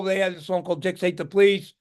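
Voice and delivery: ordinary talk, nothing marked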